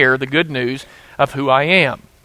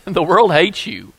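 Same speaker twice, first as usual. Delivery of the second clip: asserting. Retold or imitated. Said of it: "Jesus was asserting".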